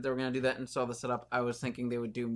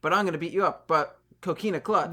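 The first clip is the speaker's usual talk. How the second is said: louder, higher hammed-up wrestler threat; mock shouted promo; 5 semitones higher, 8 dB louder than usual. Mocking Samoa Joe's repetitive threats, loud and hammed-up. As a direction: ham it up like a cartoonish wrestling promo. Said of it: "which was".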